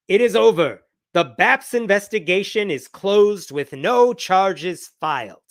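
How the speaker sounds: mock Indian accent, punchy start; a light Indian accent impression. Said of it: "this is my Indian accent".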